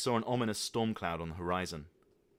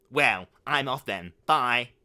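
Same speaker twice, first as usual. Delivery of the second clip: loud, slow, huffy farewell; sulky exit; 4 semitones higher, 11 dB louder, slower than usual. Acted. Son huffily walking out on his father. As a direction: say it like slamming a door.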